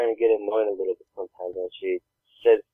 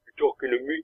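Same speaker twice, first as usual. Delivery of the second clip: put-on higher-pitched little girl's retort; imitating little daughter; 4 semitones higher, 4 dB quieter than usual. Daughter finally noticing she's being talked to, imitated little-girl voice. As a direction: put on a small child's challenge. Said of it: "then she'll, like, snap into it".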